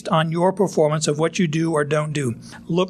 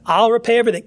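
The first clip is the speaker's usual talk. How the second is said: pleading servant; 5 semitones higher, 4 dB louder, much faster than usual. Retold or imitated. Servant begging master in parable.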